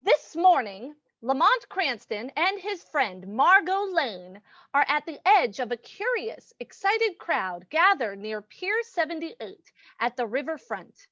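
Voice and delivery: put-on old-time radio drama announcer; radio announcer narration. A narrator's reading. Announcer setting the riverfront scene, dramatic narration. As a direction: set the scene with measured, swooping emphasis.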